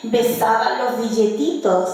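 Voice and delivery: measured recital of rhymed verse, phrase by phrase; declaimed folk poem; poetry recitation. Shown as a demonstration. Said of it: "Voy a recitar las décimas".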